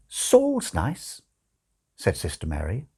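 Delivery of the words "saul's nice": lightly voiced nun. Nun suggests name.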